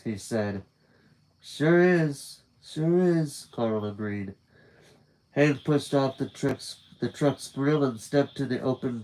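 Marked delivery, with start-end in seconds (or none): 1.4-3.5 higher pitched rough sidekick; higher coarse voice. Acted. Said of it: "His voice was higher pitched than his dad's".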